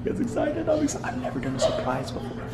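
soft secretive whisper. Real, not acted. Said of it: "you wanna know a secret".

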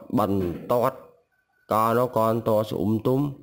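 no to, no thua said slowly and deliberately; slow read-back. Shown as a demonstration. Teacher rereads lesson thirty-five slowly for learners, slow and careful. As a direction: read each Khmer word slowly and clearly. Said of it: "mình sẽ đọc từ từ nhé".

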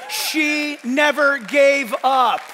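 slow, loud proclaiming shout; emphatic shout. Real, not acted. Pastor preaching to his church, slow loud shout. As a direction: drag it out loud for the congregation.

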